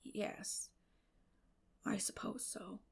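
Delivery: soft, half-whispered reluctance; reluctant. Acted. Matthew to Marilla, giving in softly and reluctantly. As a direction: mumble it, not wanting to agree. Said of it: "said Matthew reluctantly".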